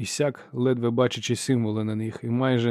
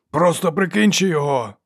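higher, louder last yell; shouting marshal; 6 semitones higher, 5 dB louder than usual. Acted. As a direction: shout it after him across the arena. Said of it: "крикнув Варус востаннє".

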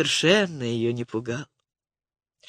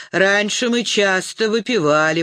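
frat bro. Acted. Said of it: "пожаловался он заплетающимся языком".

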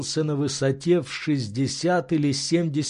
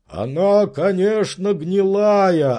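louder, certain servant's voice; servant's verdict; 6 semitones higher, 4 dB louder, slower than usual. Acted. Servant reporting on the rotten branch, sure. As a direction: state it flatly as fact.

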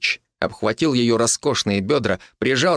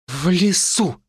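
blurted out; 7 semitones higher, slower than usual. A narrator's reading. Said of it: "вдруг выпалила она".

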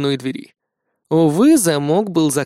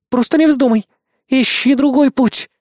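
growling; 9 semitones higher, 4 dB louder than usual. Acted. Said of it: "прорычала Эрис".

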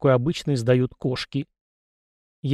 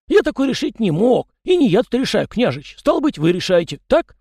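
high chatty peasant voice, pitched well up; raised voice of an old peasant gossip; folksy yard spirit; 9 semitones higher, 4 dB louder than usual. A narrator's reading. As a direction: play the fussy little yard spirit, talking nonstop. Tikhon speaks.

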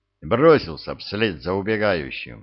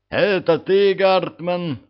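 high loud call down a tunnel; 9 semitones higher, 4 dB louder, slower than usual. A narrator's reading. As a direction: shout the question across the dark. Calling across the tunnel.

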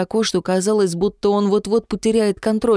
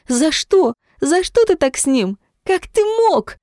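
much higher, anguished outburst; furious cry; 10 semitones higher than usual. A narrator's reading. Jemma attacks her father with fists, high furious cry. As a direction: hurl the accusation at him.

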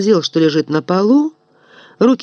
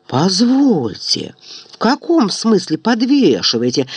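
indignant; 2 semitones higher than usual. Acted. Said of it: "возмутился Момус".

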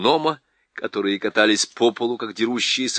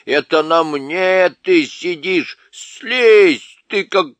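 loud, high angry dwarf shout; 6 semitones higher, 7 dB louder, slower than usual. A narrator's reading. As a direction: yell at him to get off. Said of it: "сердитый голос".

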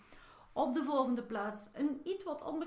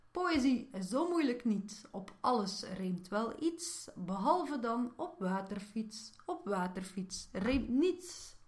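measured comic verse reading; light, deliberate poetry delivery; poem recital. Acted. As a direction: recite a short funny poem, landing each rhyme.

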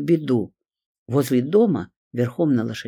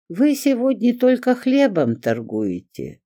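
much higher, slow disappointed drawl; 11 semitones higher, 3 dB louder than usual. A narrator's reading. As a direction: stretch it out, let down. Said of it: "разочарованно протянула она". (разочарованно, протяжно)

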